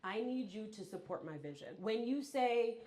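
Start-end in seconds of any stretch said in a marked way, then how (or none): 0.0-1.8 measured, straight-up request; a frank, serious appeal to a loved one; straight talk. Acted. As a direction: say it plainly and deliberately. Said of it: "have the straight up conversation and say".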